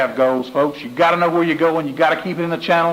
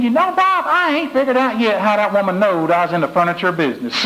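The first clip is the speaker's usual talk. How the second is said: punchline voice; 4 semitones higher than usual. Retold or imitated. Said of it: "he curls his mouth in a half moon".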